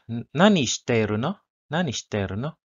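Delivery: nani shiteru no with pitch rising at the end; casual question, voice going up at no; rising question tune. Shown as a demonstration. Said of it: "We use the high intonation".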